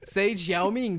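Chinese accent. Shown as a demonstration. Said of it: "this is a little trick".

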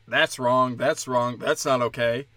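low, measured disapproval; low judging voice. Retold or imitated. Comic voicing himself after filtering the claims, low and disapproving. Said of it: "be like".

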